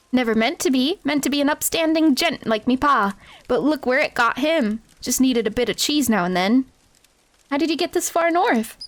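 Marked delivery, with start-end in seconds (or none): 0.1-6.7 Wimby voice. Acted. Wimby's street urchin voice.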